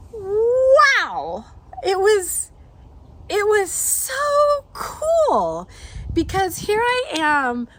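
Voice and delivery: overcome, crying through the words; real happy tears breaking through; tearful awe. Real, not acted. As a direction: voice cracking high with tears of joy. Tearful retelling of moving moment.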